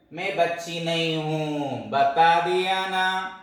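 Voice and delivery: put-on slow, stubborn little girl insisting; slow pouting protest; indignant child. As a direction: drag it out like a sulky kid who won't be called little. Child insists she isn't little.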